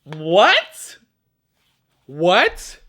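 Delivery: loud, high shocked "What?"; surprised. Real, not acted. Finding an old makeup palette, loud surprised cry. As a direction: blurt it out in disbelief.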